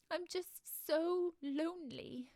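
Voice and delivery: high, loud, drawn-out lament; tearful mermaid. A narrator's reading. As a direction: wail it slowly like a lonely crying mermaid. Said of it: "She was crying her heart out".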